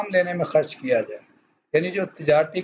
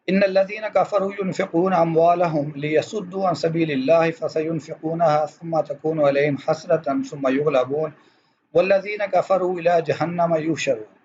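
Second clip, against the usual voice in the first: lightly intoned Arabic verse recitation; Quran recitation. Acted. Teacher reading a Quran verse before translating, reciting.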